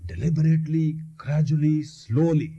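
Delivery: word by word with pauses; measured, separated words; deliberate, gradual. Shown as a demonstration. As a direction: set each word apart, unhurried. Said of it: "Start repeating the words deliberately, gradually, slowly".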